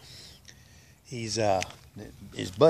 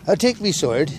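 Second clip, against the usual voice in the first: higher-pitched mock English accent; 4 semitones higher, 3 dB louder than usual. Englishman choosing his death, in a mock English accent. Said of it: "They go to the Englishman".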